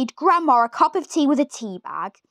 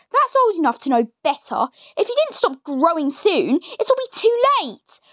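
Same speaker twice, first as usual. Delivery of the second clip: put-on higher, mean old woman's voice; nasty Grandma; 6 semitones higher than usual. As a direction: sneer it like a wicked granny. Grandma scolds.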